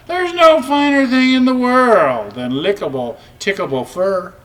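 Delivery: a lightly voiced preening cat; purring cat. A narrator's reading. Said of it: "purred the cat".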